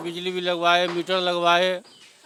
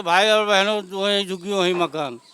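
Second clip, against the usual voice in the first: quicker, toned-down echo of a politician's call; mild mimicked rally slogan. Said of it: "चिल्लाते थे गला फाड़ फाड़ के". (नेता के नारे की हल्की नकल)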